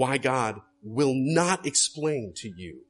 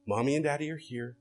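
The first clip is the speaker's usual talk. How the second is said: reassuring parent; 3 semitones higher, 5 dB quieter than usual. Retold or imitated. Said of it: "you say something like this".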